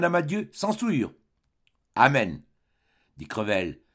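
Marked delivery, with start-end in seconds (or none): 1.9-2.4 a touch of diabolical bitterness; mild sour mockery; bitter. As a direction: sneer the amen lightly. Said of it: "avec cette amertume diabolique".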